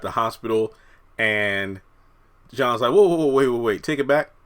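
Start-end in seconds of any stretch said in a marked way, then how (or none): 2.9-4.3 alarmed protest. Retold or imitated. Retelling John's alarmed protest.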